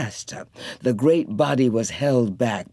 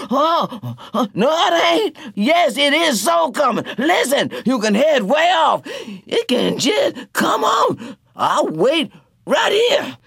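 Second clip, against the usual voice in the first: high, loud, crying refusal; stubborn Motorboat; 12 semitones higher, 3 dB louder than usual. A narrator's reading. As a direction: refuse to move, resigned.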